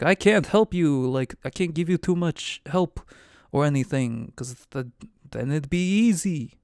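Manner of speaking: the giant apologetically declining; cloud giant voice. Acted. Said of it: "Why did I do the voice?".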